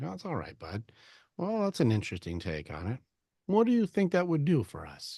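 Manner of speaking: easygoing, soft reply, lilting up at times; calm, cool dad. Acted. Dad calmly handling his kid's bullshit, gentle and unbothered. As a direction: take it coolly and hear the kid out. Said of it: "be the calm, cool dad".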